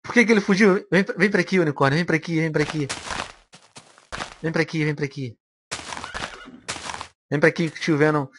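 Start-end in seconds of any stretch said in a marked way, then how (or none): 2.0-8.3 soft, lower calling; gentle coaxing. Real, not acted. Player lures the unicorn over, soft coaxing. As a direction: coax a skittish animal closer.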